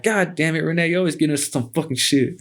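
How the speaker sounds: high-pitched retold complaint; exasperated scolding. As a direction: whine at a troublesome brother. Retold scolding of his brother.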